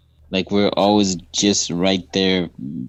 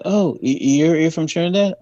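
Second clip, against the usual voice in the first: high, eager "you're from Trinidad?"; thrilled to meet a fellow Trinidadian; excited greeting; 8 semitones higher than usual. Retold or imitated. Retelling his excited question to the stranger at the bus station. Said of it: "I go".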